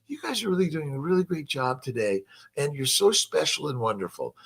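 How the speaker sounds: lightly voiced gentle football coach; mock gentle coach. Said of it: "You think Vince Lombardi was telling".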